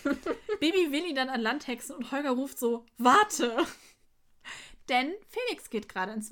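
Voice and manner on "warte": louder, short retold cry of wait; mock shout. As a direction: call out to stop him, half-acted. Holger calls out Warte.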